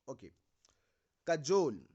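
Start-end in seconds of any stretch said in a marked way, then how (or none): 1.3-1.9 "कजोल" said ka-JOLE, short first a, long o; correct pronunciation. Shown as a demonstration. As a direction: say "कजोल" with short ka and stretched jol. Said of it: "it is not काजल". ("कजोल" को क-जोल बोलो, काजल नहीं)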